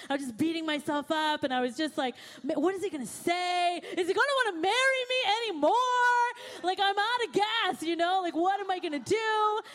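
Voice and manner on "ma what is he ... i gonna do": higher, faster panicked rush of questions; mock panic. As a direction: replay the freak-out, tumbling fast and high. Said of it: "And I just started freaking out".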